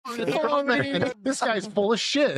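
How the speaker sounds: high, slow sneering heckler voice; mocking critic voice. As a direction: jeer at yourself like a scornful onlooker. Voicing imagined critics mocking him.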